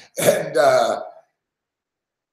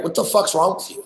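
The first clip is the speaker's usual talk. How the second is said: retold irate scolding, higher pitch; bitching fireman; 6 semitones higher than usual. Fireman scolding the host still on air, bitching. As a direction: mildly imitate an exasperated telling-off. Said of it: "bitching at me".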